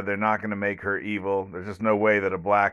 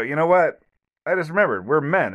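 higher-pitched, hammed-up eureka voice; mock sudden realization; 7 semitones higher, 5 dB louder than usual. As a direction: play a man who suddenly remembers his strength, half joking. Men suddenly realizing, acted quote.

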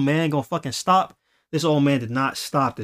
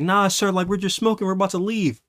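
higher, mildly appeasing voice; homie's excuse; 5 semitones higher than usual. Retold or imitated. Fabio explaining himself to the dog's owner, lightly imitated placating voice. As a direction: lightly imitate a kid placating an adult, pitch raised. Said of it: "my homie Fabio, he's like".

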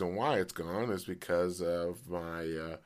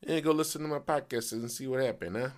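higher-pitched mock Italian accent; 4 semitones higher than usual. Telling friends to go hear the podcast, Italian accent. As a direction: put on a playful Italian accent. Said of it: "I tell them like that in an Italian accent".

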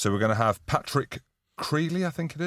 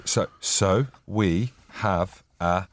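bad ad read; 3 semitones lower than usual. Real, not acted. Host taking over the sponsor read from his co-host, bad ad read. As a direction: read it out stiffly, word by word. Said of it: "That was the worst reading".

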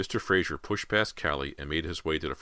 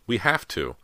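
put-on raised, louder, urgent girl; trembling insistence; 6 semitones higher, 5 dB louder than usual. A narrator's reading. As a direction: insist through your fear. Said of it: "insisted in a trembling voice".

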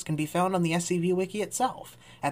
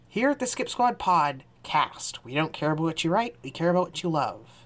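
podcast trailer read. Acted. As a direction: sell the show's motto to new listeners.

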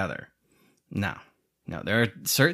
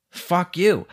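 heated curse; 7 semitones higher than usual. Real, not acted. Repeats the curse, more heated.

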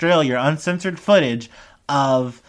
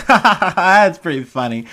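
higher, louder put-on ha-ha laugh; mock laugh; 4 semitones higher, 5 dB louder than usual. Imitating the actor laughing at the joke, mock laugh. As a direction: imitate a hearty audience laugh. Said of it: "does the thing where you laugh".

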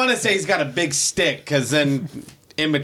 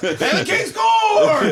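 shout; slower than usual. Pretend. Imagined goal call.

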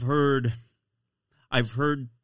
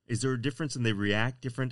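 normal talking voice

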